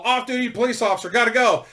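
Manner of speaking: quick, high, loud dismissal; brisk brush-off. Retold or imitated. Paul flashing his badge at the cop, fast loud brush-off. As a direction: rattle it off and leave.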